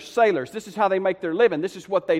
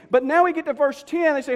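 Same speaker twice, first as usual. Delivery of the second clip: ordinary talk, nothing marked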